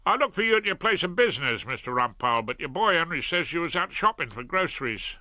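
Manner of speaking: a lightly voiced cheerful South London crook; cheery Fred. Fred tells Rumpole.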